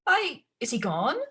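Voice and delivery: high, fluttering fuss; flustered stepmother. Acted. Stepmother fusses about the footman, high and flustered. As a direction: bluster to cover the distress.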